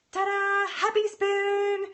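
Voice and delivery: high, loud, slow fanfare; big showy ta-da, stretched out slowly; excited reveal. Real, not acted. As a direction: unveil the spoon like a prize, high and loud. Grand reveal of the spoon.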